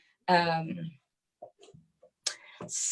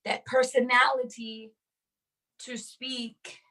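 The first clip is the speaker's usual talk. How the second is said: higher put-on mascot voice, a bit theatrical; 6 semitones higher, slower than usual. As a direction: puff it up like a cheery mascot. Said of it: "I don't know why I just did that".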